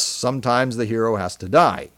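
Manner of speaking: "sometimes" given emphasis as a caveat; stress on SOMETIMES. Real, not acted. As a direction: lean on the word "sometimes". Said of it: "Emphasis on sometimes".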